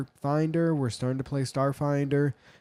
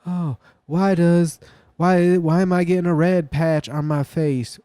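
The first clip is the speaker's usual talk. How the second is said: worried searcher; 5 semitones higher, 5 dB louder than usual. Pretend. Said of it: "Or you'd be like".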